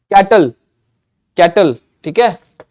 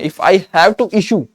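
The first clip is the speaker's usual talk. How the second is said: slow example; much slower than usual. Shown as a demonstration. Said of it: "किसी को कुछ notice जारी करना है".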